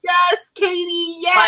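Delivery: shouting yes up high, thrilled; excited shout. Real, not acted. Excitedly agreeing with co-host.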